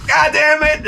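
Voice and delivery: lightly hammed-up annoyance; mock exasperation. Guy on the floor cursing the idiot, exasperated. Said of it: "he's like".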